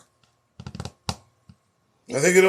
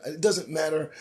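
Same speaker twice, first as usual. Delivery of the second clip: subdued dismissal; 8 dB quieter than usual. Real, not acted. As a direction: toss it off quietly. First, subdued take before the outburst.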